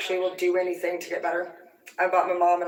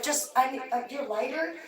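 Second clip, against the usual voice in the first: raised pitch, a mild put-on voice; lightly voiced sister, higher; mimicking the sister; 7 semitones higher, 3 dB quieter than usual. Sister asking for the lighter, lightly mimicked high. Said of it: "she's like".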